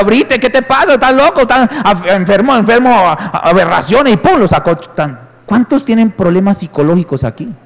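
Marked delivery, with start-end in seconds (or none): 0.0-4.1 startled, raised scolding questions; lightly voiced shocked wife; mock shocked wife. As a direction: play the appalled wife snapping back. Wife scolds in retold scene.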